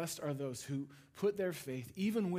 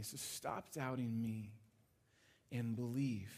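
tender; 3 semitones lower than usual. Retold or imitated. Jesus voiced tenderly to Thomas.

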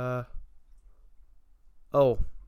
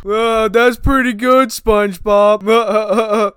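Patrick Star; slower than usual. Acted.

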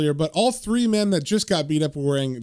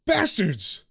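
raised-pitch acted cry of outrage; contained furious shout; angry yell; 5 semitones higher than usual. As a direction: hurl it out, volume held back. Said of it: "And Chaz yells out".

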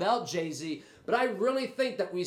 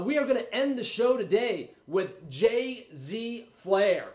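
excited announcement. Real, not acted. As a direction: hype the guest's name like a ring announcer. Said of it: "Did I really have to be that excited about J Z Flair".

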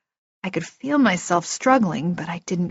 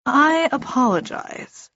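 slow, higher, formal elf voice; composed otherworldly politeness; Etri; 6 semitones higher than usual. A narrator's reading. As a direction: offer a measured, courteous apology.

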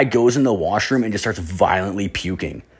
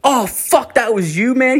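high-pitched imitation of a surprised stoner; surprised stoner guy; 13 semitones higher than usual. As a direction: squeak it out like a dazed buddy. Guy recognizes narrator at party.

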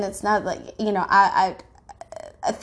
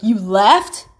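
surprised; 5 dB louder than usual. Retold or imitated. Boyfriend's shocked reply quoted.

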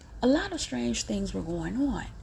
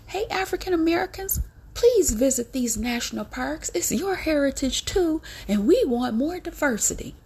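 mock sweet invitation; 5 semitones higher than usual. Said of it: "turned right around and said".

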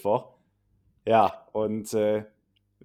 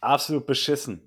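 raspy voice from a cold; hoarse from being sick; husky sick voice. Real, not acted. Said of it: "wenn die Stimme was rauchiger klingt".

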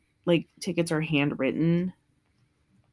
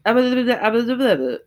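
high, loud fast babble of a chef; imitated gibberish; 6 semitones higher, 6 dB louder, much faster than usual. To Gordon, a chef babbles in high loud gibberish. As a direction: mimic a chef's rapid, unclear gabble. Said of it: "he goes".

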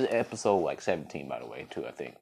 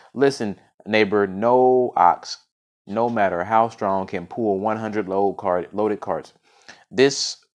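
measured folk-tale reading; story narration. A narrator's reading. Storyteller reading of the poor farmer and his ox, story narration. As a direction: read it out as a tale, with weight on key words.

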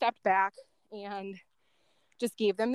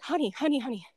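retold urgent call, a bit higher; 4 semitones higher than usual. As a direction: call her name with light urgency. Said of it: "He sounded, like, so urgent".

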